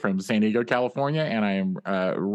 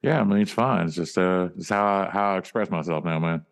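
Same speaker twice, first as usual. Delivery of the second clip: crooner-like drawl; 2 semitones lower than usual. Acted. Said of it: "what's with the voice?".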